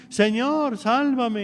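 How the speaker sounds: pitched high, a pleading cry; high desperate cry for help. Retold or imitated. Peter sinking, cries to the Lord: a high plea. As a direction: cry out to the Lord as you go under. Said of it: "empezamos a gritar".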